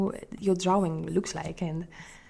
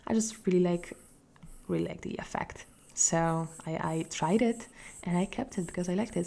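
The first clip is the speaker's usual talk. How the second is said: whispering. Acted. Whispered personal remark.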